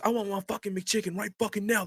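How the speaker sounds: high-pitched impression of a demanding customer; mock angry ranting. Customer going off at the manager over a McChicken, mock ranting. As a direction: insist indignantly up high, without real volume. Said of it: "Just going off".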